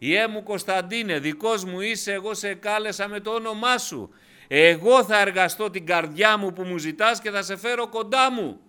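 high, prophetic declaration; preacher voicing a divine call; God's voice, proclaimed. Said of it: "ούτω λέγει Κύριος ο Θεός".

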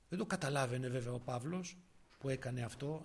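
ordinary talk, nothing marked

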